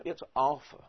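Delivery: alpha said the Greek way, AHL-fah. Shown as a demonstration. Teacher models the Greek alpha. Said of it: "Except in Greek".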